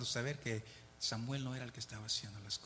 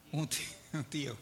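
stumbling word into a giggle; laughing. Real, not acted. Preacher laughing at stumbling on the word, giggling. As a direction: laugh at your own slip.

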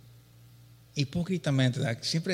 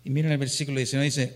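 usual speaking voice

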